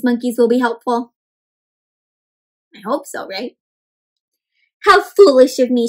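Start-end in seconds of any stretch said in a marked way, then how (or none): 4.8-5.9 louder cry at herself; Mela scolds herself aloud; self-reproach. Acted. Mela to herself, louder self-reproach. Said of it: "she said".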